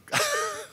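high, short real laugh; burst of laughter. Real, not acted. Preacher amused by his own gulping act, high short laugh. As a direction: break up laughing at your own imitation.

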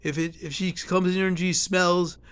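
high, loud angry tirade; indignant outburst. Retold or imitated. Speaker firing back at the nursing home staff, angry and loud.

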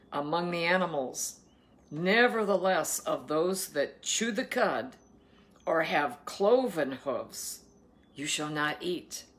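measured Bible reading; scripture reading. Acted. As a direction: read the law out deliberately. Reads scripture aloud.

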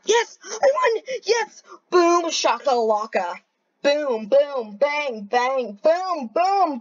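yelling with joy at winning; victory cheer. Real, not acted.

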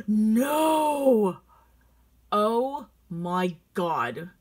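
loud, drawn-out cry of dismay; dismayed outcry. Real, not acted. Shopper finding a longed-for bag is gone, dismayed outcry. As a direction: cry out in shock, then slow right down. Dismayed at a favorite item's news.

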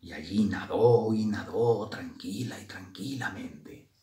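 soft, soothing storytelling; calm. A narrator's reading. Grisela swims peacefully away from the bees, calm. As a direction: let it settle gently after the commotion. Narrator calms after the chase.

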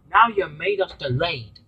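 a mildly cross engine scolding; cross reproach, not quite shouting. Acted. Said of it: "said Gina crossly".

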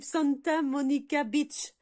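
slow, emphatic French-accented English; mauvais accent anglais. Real, not acted. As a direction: try the English name slowly with a poor French accent. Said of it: "J'ai un accent pourri d'anglais". (accent anglais pourri, lent et appuyé)

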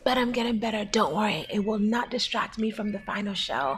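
crying. Real, not acted. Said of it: "Don't cry, baby".

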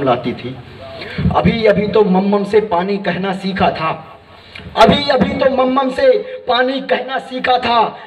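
reciting a poem as a little girl, lightly voiced; poem recital. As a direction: recite it with the pauses of the stage, as the small girl. (मंच पर कविता पाठ, हल्के से बच्ची की आवाज़ में)

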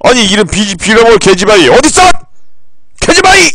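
angry calling shout. Pretend. Streamer searching the house, yelling for the cat. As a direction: holler for the lost cat in frustration.

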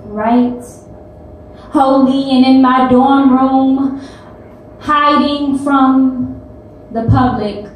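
poetry slam delivery, rising then settling at the end; spoken-word poem. Acted. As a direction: perform it as testimony, pausing between lines, then building in intensity.

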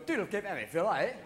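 lightly garbled Scottish brogue; mock-unintelligible Scottish burr; Scottish accent. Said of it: "You land in Scotland and they're going".

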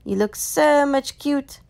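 high-pitched adoring fuss; gushing admiration. Acted. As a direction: gush over a cute pet. Gushing over a cat's look.

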